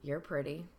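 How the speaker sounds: low, quiet, leering; sleazy come-on under the breath; creepy catcall. Shown as a demonstration. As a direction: creep in the shadows. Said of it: "sorry if I don't nail it right away".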